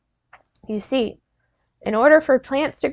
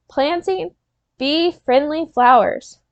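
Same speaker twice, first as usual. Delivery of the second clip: slow call-and-repeat; 3 semitones higher, slower than usual. Shown as a demonstration. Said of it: "Repeat after me".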